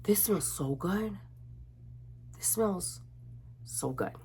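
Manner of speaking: unvoiced, hushed whisper of delight; soft whispered this smells so good; whispered sniff. Shown as a demonstration. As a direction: breathe it out like savoring a scent. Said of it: "demo of sniffing".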